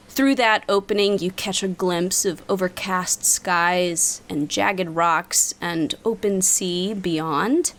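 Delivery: game master scene setting. Acted. GM describes what players see.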